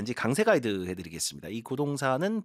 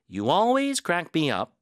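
always said higher and louder, slowly; stress on always; 7 semitones higher, 4 dB louder, much slower than usual. Shown as a demonstration. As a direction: hit the word always. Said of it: "부사 힘 주시고".

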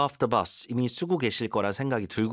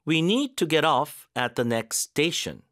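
slow, "need" and "off" stressed; slow stress drill; stress demo; 4 semitones higher, much slower than usual. Shown as a demonstration. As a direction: lay the stress clearly. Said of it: "강세를 어디다 넣어야 되는지".

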